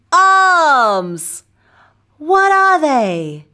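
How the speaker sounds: put-on clear, bright teacher voice for children; kids show host. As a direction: lead the little ones in a chant. Kids show host drilling words.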